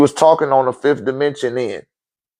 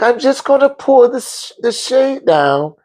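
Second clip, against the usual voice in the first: channeler voice; 10 semitones higher than usual. Retold or imitated. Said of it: "She was like".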